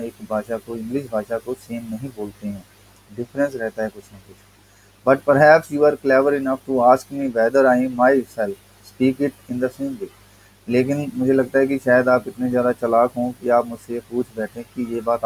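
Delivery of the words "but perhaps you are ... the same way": reading the essay slowly, word by word; slow text reading. Acted. Teacher reading the English essay to students, slow and deliberate. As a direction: read each word out to the class.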